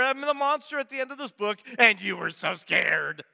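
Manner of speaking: a gleeful little monster owning up; Grover imitation. Grover telling the reader he is the monster, light quick puppet voice. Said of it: "lovable furry old Grover".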